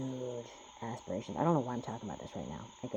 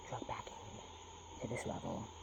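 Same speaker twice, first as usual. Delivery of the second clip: soft, slow whisper; whispered aside; 3 semitones lower, 14 dB quieter, slower than usual. Real, not acted. Admitting he is pulled back in, slow whisper. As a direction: let it slip out under your breath.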